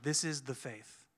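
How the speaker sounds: hushed, devout quote; hushed earnest quote. Retold or imitated. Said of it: "he was like".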